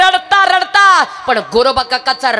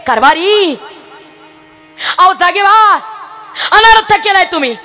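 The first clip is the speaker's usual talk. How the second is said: higher and louder, a crying scream; wailing accusation; 3 semitones higher, 4 dB louder than usual. Acted. Grieving wife screaming and cursing her husband's bhajan. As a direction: curse his bhajan through sobs.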